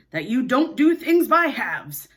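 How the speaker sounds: slow, breathy whisper of a grudging father. Acted. Mister Darling grudging to Wendy, whispered slowly. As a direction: mutter it slowly under the breath. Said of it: "A grudging remark".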